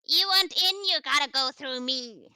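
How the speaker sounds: high, loud, gruff tough guy; gruff guard voice. Acted. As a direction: bark it like a bouncer. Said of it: "I'm basically doing Maya's voice, but, like, adding, like, a gruffness to it".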